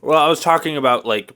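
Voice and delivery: talking around ice cubes; words muffled by ice in mouth. Real, not acted. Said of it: "You were talking about how you have ice in your mouth".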